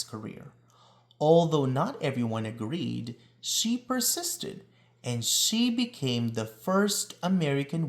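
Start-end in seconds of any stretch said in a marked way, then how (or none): 3.4-4.6 persisted lifted high and slowed, stress on persisted; emphatic refrain. A narrator's reading. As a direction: land the refrain with pride, slowly.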